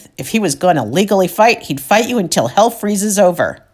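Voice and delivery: ordinary talk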